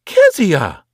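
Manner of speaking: loud, high summoning shout; aunt shouting the child's name; sharp call. A narrator's reading. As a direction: call her name like a reprimand. Aunt calls sharply from door.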